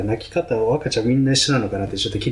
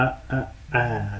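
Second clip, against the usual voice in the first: put-on tiny baby voice; 5 dB quieter, much slower than usual. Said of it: "大体三回最初にちっちゃい声がある".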